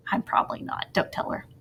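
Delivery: whispered aside. Acted. Teacher's joking aside to students.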